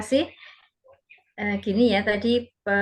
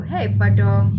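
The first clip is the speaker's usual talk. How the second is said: loud praise; 9 dB louder, much slower than usual. Retold or imitated. Praising the child.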